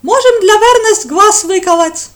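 gleefully volunteer the cruelty; eager. Acted. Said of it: "с готовностью предложил Эртар".

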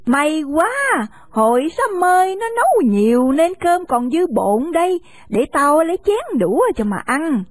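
put-on an old woman happily offering leftovers; a hint of a cheerful grandma; kindly old woman.

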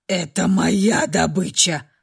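low, slow growl through a predator's snarl; rough growling male voice. A narrator's reading. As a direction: growl it like a beast claiming prey. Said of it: "послышался грубый мужской голос, звучащий сквозь грозный рык". (грубый рычащий мужской голос)

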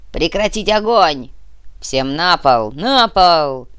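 loud, forceful order to the floor; shouted command. Acted. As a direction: bark orders at a crowd. Terrorist orders hostages down.

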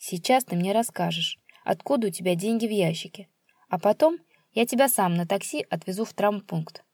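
level, unhurried threat; calm. Acted. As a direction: say it coolly. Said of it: "спокойно сказал Игорь".

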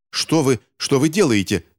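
put-on high, alarmed child's protest; crying out. A narrator's reading. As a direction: cry out in alarm, moderately loud. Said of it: "закричал Финч". (встревоженный высокий вскрик)

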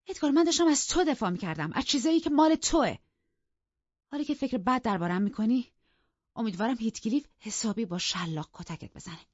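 high, loud hurt tirade; impassioned, high-pitched berating; bitter outrage. Acted. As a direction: build to a peak of betrayal, then curse him. Wife bitterly berates husband, curses him.

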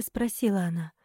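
usual speaking voice

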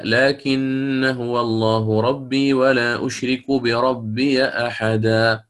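slow measured tajweed chant; Quran recitation. Shown as a demonstration. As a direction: recite it slowly with drawn-out vowels. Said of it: "في قوله تعالى". (تلاوة مجودة بطيئة)

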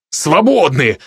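mild, contained bark; barked dismissal. Acted. Magician dismisses the household, mildly barked. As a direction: dismiss them with a touch of temper. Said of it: "рявкнул я".

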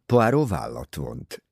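plain reading voice

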